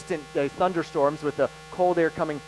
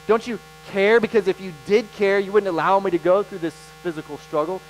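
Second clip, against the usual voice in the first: pleading complaint. Retold or imitated. Believer in struggle accusing Jesus of not caring, pleading. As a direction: press each accusation like a hurting believer.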